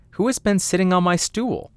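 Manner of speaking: high, puzzled little dwarf voice; first dwarf. Acted. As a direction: pitch it up as a small indignant dwarf.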